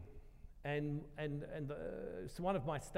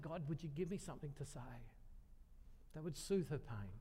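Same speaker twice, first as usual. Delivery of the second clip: softer, pleading aside to God; quiet retold prayer; 6 dB quieter than usual. Speaker asks God for soothing words, quiet prayer. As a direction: drop the volume into a private plea.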